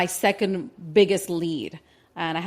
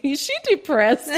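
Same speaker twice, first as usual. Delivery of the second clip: gossiping in-laws; 9 semitones higher, 3 dB louder than usual. Retold or imitated. In-laws gossiping about her.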